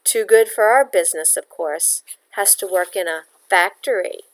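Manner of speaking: sneering. Acted. Landlady sneering at Bella.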